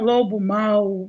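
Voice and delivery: lobo mau arrastado, bem lento; entonação de lobo mau. Shown as a demonstration. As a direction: alongar as palavras como num conto infantil. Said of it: "quando eu uso essa entonação". (entonação de personagem de história)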